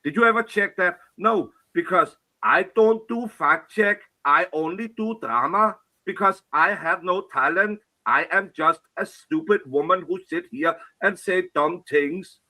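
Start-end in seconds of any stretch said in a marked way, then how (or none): 1.2-12.4 mock self-confession. Mockingly voices the woman she criticises.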